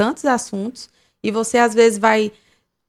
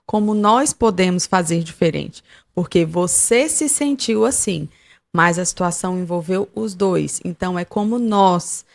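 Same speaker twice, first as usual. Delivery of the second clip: calm, inviting. Shown as a demonstration. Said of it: "você pode até dizer assim".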